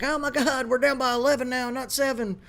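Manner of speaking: high whiny mockery of a sulking coach; mock crybaby coach. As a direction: whine like a sore loser coach. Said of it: "He's like".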